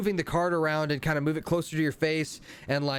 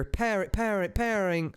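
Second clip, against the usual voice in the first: glitchy device voice; 6 semitones higher, slower than usual. Acted. Card glitching in unison.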